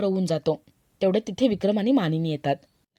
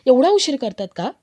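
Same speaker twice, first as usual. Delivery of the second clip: higher-pitched, lightly acted chiding; mock scolding; 4 semitones higher, 4 dB louder than usual. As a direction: chide the latecomer with raised pitch. Mother-in-law chides her for lateness. (लटक्या रागाने, चढ्या सुरात)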